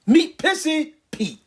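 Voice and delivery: high, slow announcer voice; showman's introduction, drawn out high; announcer intro. Acted. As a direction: present Pissy Pete like a game-show host. Introducing a character.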